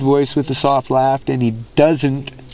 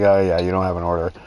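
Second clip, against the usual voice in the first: lower, flat-toned customer service voice; mock the support guy brushing him off; bored support rep; 6 semitones lower, faster than usual. Phone rep telling him he has no order, mock bored. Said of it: "And they're like".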